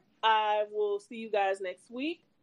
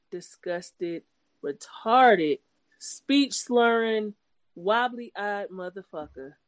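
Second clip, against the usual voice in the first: roast read; much slower than usual. Real, not acted. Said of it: "let you have this last read".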